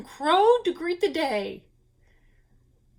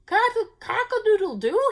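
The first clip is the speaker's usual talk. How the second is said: snickering crow; 8 semitones higher than usual. A narrator's reading. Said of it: "he snickered".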